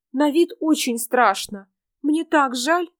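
lightly voiced pitying girl; little girl voice. Girl's voice.

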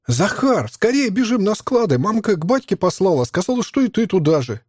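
put-on high squeaky little boy shouting; a ten-year-old boy yelling in a thin, high voice. A narrator's reading. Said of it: "прокричал писклявым голоском мальчишка".

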